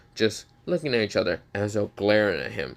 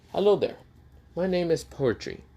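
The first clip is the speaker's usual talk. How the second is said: gentlemanly greeting; 7 semitones higher than usual. Acted. Gentleman introduces himself.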